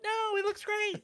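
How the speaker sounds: high, slow, laughing backpedal; laughing fake reassurance. Father to upset daughter, laughing nervous reassurance. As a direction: cover yourself through a laugh.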